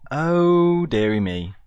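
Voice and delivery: loud, high rueful oh dear; dismayed surprise. Real, not acted. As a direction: catch your own blunder out loud. Spots his own mistake.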